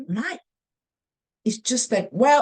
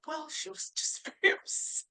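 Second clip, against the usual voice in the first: hushed son; 7 semitones higher, 9 dB quieter than usual. Retold or imitated. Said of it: "He said".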